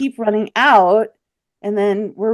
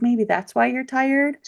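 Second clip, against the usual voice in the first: friend's voice pitched up, teasing; athletic friend, higher voice; 7 semitones higher than usual. Retold or imitated. Friend teasing her on dune hike, higher voice. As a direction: play the breathless friend, voice lifted high. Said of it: "She's like".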